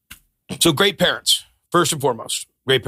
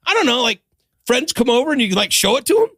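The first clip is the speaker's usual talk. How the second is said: much higher, unsure mock jeweler; retold jeweler's shrug; 12 semitones higher, faster than usual. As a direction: play him fumbling for an answer in a high voice. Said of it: "He goes".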